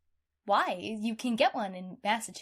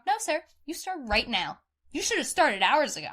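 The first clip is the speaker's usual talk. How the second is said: angry scolding; 4 semitones higher, 4 dB louder than usual. Retold or imitated. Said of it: "beyond pissed".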